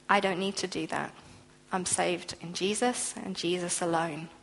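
a believer answering a challenger with quiet assurance; calm assurance. Pretend. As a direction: answer calmly and surely, no fight. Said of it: "very calmly, but very assuredly".

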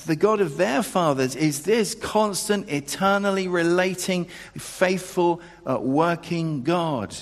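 loud, ringing proclamation of God's constancy; preacher lifting the room; full-force preaching. Acted. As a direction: drive every line home to the congregation.

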